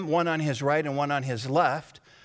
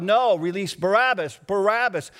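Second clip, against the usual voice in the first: louder crowd demand for Barabbas; raised mob cry; crowd shouting; 3 semitones higher, 4 dB louder than usual. Acted. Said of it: "And the crowd shouts out".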